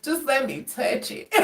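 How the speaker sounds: begging in a hushed, pitiful voice; mock pleading. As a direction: plead like a desperate ex. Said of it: "this fool broke down and he was like".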